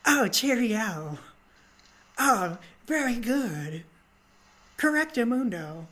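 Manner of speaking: slow, hammed-up British voice; drawn-out mock English politeness; terrible British accent. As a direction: badly fake a British officer. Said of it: "terrible accent".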